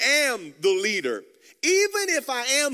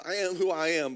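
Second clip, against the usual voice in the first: lower, settled divine reply; voice of God; 5 semitones lower than usual. Acted. Preacher repeating God's answer to Moses, lower and calm. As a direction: answer as God, low and certain. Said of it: "And then God replies to Moses".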